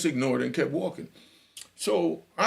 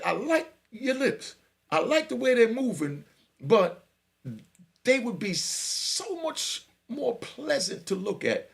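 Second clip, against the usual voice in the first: slow, drawn-out flirt, higher and lingering; smooth flirting; 9 semitones higher, slower than usual. Retold or imitated. Inmate flirting with the officer, slow and smooth. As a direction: take your time and charm her.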